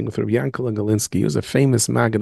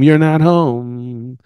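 slow emphasis; 5 dB louder, much slower than usual. Acted. Slow punchline.

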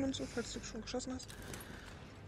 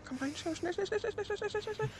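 high frantic shouting, hurry up; panicked yelling; 9 semitones higher, 7 dB louder than usual. Real, not acted. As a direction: scream at them to get in. Gas closing, urging teammate inside. (panisch schreiend)

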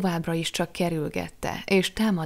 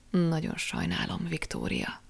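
soft consoling words, softer; said softly; 5 dB quieter than usual. Acted. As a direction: Jack consoles Viktória, softly. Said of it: "mondta halkan".

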